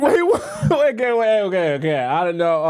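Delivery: high-pitched, laughing disbelief; real flustered surprise with a laugh; incredulous reaction. Real, not acted. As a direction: squeal in amused bafflement, then settle. Startled host reacting to the whisper.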